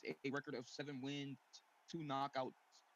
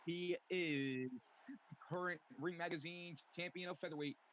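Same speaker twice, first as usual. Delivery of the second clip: boxing ring announcer. Acted. Ring announcer introducing opponent.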